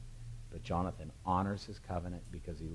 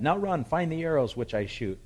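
calling out; 9 semitones higher, 6 dB louder than usual. Acted. Jonathan calling to the lad.

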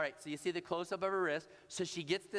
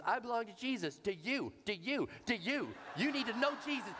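rising with each do you, ending higher; pushy preaching mom; 5 semitones higher than usual. Retold or imitated. Mom cornering three strangers, each do you climbing. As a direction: press them harder each time.

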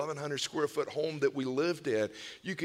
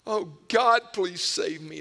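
crying out; 5 dB louder, slower than usual. Retold or imitated. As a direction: call out as if begging to be saved. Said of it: "cried and wept".

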